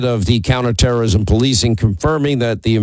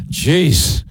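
mock annoyed. Real, not acted. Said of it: "I'm just saying you're an, an annoying".

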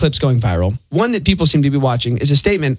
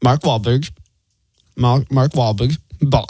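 put-on halting, lower stab at a Boston accent; attempted Boston accent; 3 semitones lower, slower than usual. Co-host giving a hint by fumbling the name, attempted Boston accent. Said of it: "I can't even do that in the accent".

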